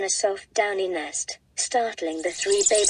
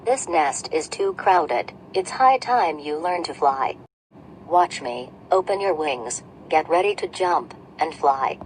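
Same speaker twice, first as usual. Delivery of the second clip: stern lower mother bird scolding; scolding Mama Bird; 3 semitones lower than usual. Acted. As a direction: order the chicks back in.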